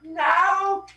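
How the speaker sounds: high, loud, drawn-out cry of no; mock scream. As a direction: wail it in comic panic. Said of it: "and screams".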